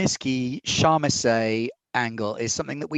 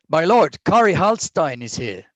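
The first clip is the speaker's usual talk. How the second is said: guard announcing; 5 semitones higher, 4 dB louder than usual. Acted. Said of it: "he says".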